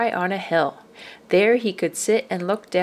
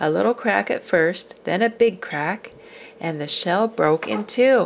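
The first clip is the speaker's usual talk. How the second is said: plain reading voice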